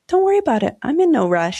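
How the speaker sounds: high, light opening easing back down; patient reassurance. Acted. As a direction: wave the apology away kindly. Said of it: "because I'm more patient now".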